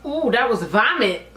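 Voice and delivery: nauseous, gagging a little; queasy stomach. Real, not acted. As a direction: talk like you might throw up. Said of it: "so much liquid in my stomach".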